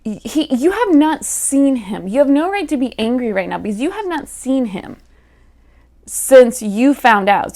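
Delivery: lightly exasperated lecture; exasperated scolding. Retold or imitated. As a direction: talk the girl down, half-playful. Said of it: "But I'm like".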